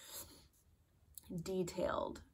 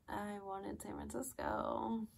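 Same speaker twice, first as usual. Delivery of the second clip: slow, softer mock pout; pouty disappointment; 3 semitones higher, 5 dB quieter than usual. New flight attendant hearing base options, pouty disappointment. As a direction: draw it out like a let-down wish.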